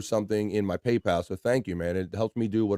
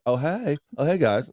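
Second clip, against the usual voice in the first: mock greeting; 5 semitones higher than usual. Shown as a demonstration. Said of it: "Say, "Hey".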